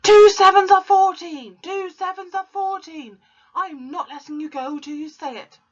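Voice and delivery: very high, very loud shout; furious yell. Acted. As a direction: scream the sum at him. Shaking the boy.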